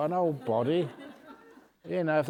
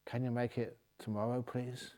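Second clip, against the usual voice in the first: deadpan monk; 9 dB quieter than usual. Acted. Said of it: "the monk looks at the doctor and says".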